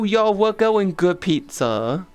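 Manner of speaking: slow, hammed-up Italian accent; mock Italian pizza man. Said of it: "talking an Italian accent".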